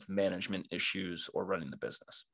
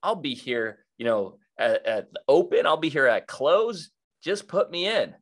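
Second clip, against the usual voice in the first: eager new coach; 3 semitones higher than usual. Retold or imitated. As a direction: pitch yourself as keen and available. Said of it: "where someone else might say".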